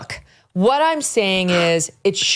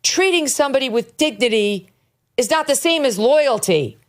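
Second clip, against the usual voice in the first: mimicking her; 5 semitones higher than usual. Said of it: "this is her thing".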